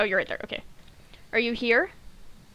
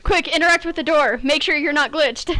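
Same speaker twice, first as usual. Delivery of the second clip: urgent; 4 semitones higher, 5 dB louder than usual. Real, not acted. Urgent game moment with partner.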